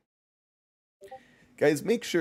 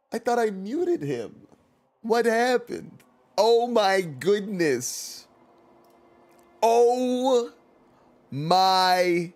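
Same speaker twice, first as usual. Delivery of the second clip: much higher and louder squeaky fluster, slowing down; mock panicked viewer; 10 semitones higher, 6 dB louder, much slower than usual. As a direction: play a flustered viewer losing it. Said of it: "The Spade said".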